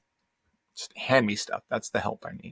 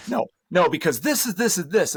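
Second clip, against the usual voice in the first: wife voiced in a retold argument; 7 semitones higher, 5 dB louder than usual. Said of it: "She's like".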